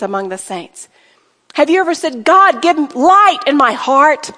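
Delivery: modelled prayer. Shown as a demonstration. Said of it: "See how you could take that and say".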